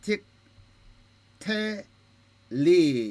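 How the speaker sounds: 틱 텔리 very slowly, with a gap between the syllables; syllable-by-syllable demo. Shown as a demonstration. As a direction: break it apart for students: 틱, 텔, 리. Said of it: "이렇게 되죠". (음절마다 끊어서 천천히)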